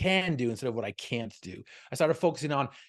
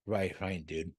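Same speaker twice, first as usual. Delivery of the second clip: slurred speech; 6 semitones lower, 5 dB quieter, slower than usual. Retold or imitated. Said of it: "in his slurred speech".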